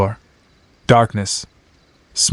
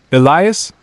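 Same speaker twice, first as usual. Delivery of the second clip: Mark's voice; 4 semitones higher than usual. Acted. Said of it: "It was Mark's voice".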